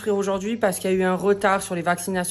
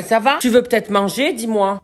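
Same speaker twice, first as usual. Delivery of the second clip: higher, louder voice to the dog; higher, much louder dog talk; pet talk; 4 semitones higher, 7 dB louder than usual. Real, not acted. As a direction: coo loudly at the dog. Talking to her dog.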